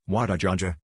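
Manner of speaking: light imitation of a thick foreign accent, Walter Johnson slurred into Wadajaja. Customer repeating the school's name, lightly imitated thick accent. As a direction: mumble Wadajaja as one blurred word in a mild accent. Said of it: "Despite her very thick accent".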